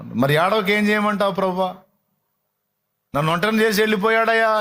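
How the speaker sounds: Mary pleading. Acted. Mary pleads to Jesus, mild weeping lament. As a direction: plead through tears, mildly.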